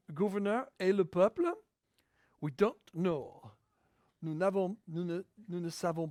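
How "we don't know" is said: English with an attempted French accent. Shown as a demonstration. Preacher quipping in English to his congregation, light French accent. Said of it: "J'ai essayé de dire ça avec un accent français".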